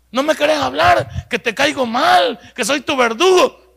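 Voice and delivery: a father confronting a sulking son, firm and loud; firm fatherly rebuke. Retold or imitated. Father answering a defiant child.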